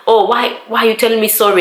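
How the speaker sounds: mock-serious questioning of an apology; serious challenge. Colleague objecting to being told sorry, retold serious challenge. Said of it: "she took it seriously".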